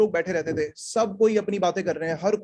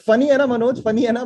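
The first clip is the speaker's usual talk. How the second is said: louder, eager push for agreement; imitating eager dad; 5 dB louder, much faster than usual. Father asks his comedian son about his joke, mock eager. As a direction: act out a dad fishing for praise.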